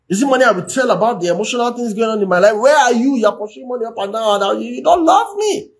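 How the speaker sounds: wife pleading she wants him, not his money; lightly voiced frustrated wife; hurt wife. And she's wondering.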